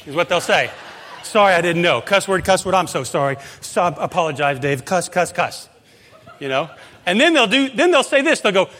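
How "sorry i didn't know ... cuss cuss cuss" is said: higher, louder imitation of a sheepish golfer; mock sorry golfer. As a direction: blurt out curses, then apologize in a half-hearted mock voice. Golfers cursing then apologizing.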